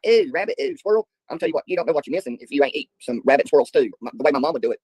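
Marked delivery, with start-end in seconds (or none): 0.0-1.1 squealing high mock disgust; high, prissy mock "ew"; mock disgusted women. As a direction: squeal it like a grossed-out girl. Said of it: "some of the women are probably like".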